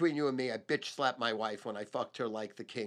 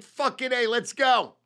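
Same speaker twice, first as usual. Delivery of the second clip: excited yell; 10 semitones higher, 9 dB louder than usual. Retold or imitated. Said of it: "I'm like".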